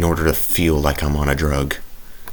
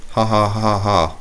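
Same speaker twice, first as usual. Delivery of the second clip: fake laugh; 4 semitones higher than usual. Shown as a demonstration. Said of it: "Laugh, people, laugh".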